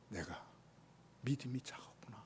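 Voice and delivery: soft whisper of regret; whispered realization. Retold or imitated. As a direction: whisper it to yourself. (깨닫고 속삭이듯)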